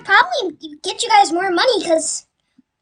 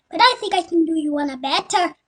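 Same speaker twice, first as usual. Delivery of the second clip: Italian attempt slipping into a mock Irish lilt; accidentally Irish-sounding. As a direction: aim for Italian, land on a light Irish accent. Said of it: "I sound like I'm Irish".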